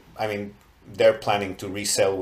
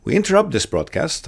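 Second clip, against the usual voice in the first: raised-pitch broadcast interruption voice; old radio announcer; 5 semitones higher, 3 dB louder than usual. Pretend. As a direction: announce it like breaking news on the radio. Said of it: "I always wanted to say this".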